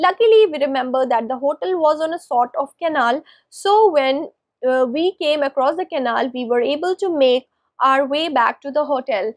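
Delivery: measured read-aloud storytelling; story narration. A narrator's reading. Man recalls losing his hotel abroad, measured story narration. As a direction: read it out phrase by phrase, with pauses.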